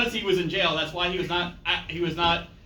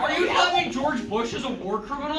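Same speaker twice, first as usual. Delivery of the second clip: mock shocked shout; 5 semitones higher than usual. Real, not acted.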